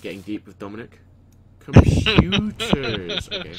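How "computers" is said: drawn out. Real, not acted. Slow drawn-out word.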